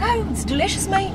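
high, put-on British voice; British accent. Joking about getting some water, mock British accent. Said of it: "Do your British accent".

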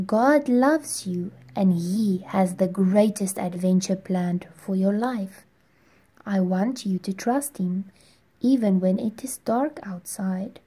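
quiet, tender reassurance; soft motherly voice. Acted. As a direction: gently comfort a scared child. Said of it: "his mother said softly".

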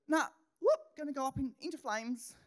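high, loud playful whoop, then settling; preacher acting out a thought going up in flames, playful. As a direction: toss the grievance away with a bright whoop. Burning the thought away.

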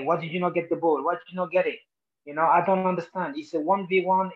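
imitated scolding. Player voices his manager berating him over a lost ball, scolding.

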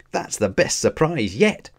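high-pitched delight; excited. A narrator's reading. Ash to the professor about his surprise, excited. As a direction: react with eager delight. Ash thrilled at battle offer.

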